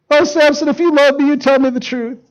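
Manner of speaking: high, put-on coaxing voice; mock wheedling. Delilah coaxes Samson for the truth, mock wheedling. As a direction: coax him with hammed-up hurt.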